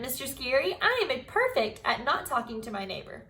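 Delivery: put-on lively storybook read-aloud for kids; reading to children. A narrator's reading. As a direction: tell it like a chapter book to the class. Teacher reads Junie B story aloud.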